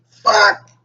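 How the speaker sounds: frustrated curse. Real, not acted. Phone won't dial.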